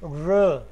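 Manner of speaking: drawn-out "र" with the tongue curved back; "र" held alone, tongue curled. Shown as a demonstration. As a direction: slowly demonstrate a retroflex "र". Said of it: "curve करती है".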